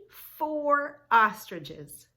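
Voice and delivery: slow, loud counting answer; big answer. Shown as a demonstration. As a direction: land the answer loudly and slowly.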